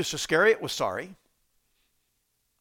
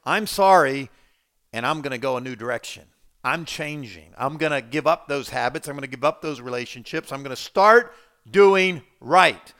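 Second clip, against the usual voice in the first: mock resolute penitent; 2 semitones lower, 5 dB louder than usual. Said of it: "Godly sorrow is".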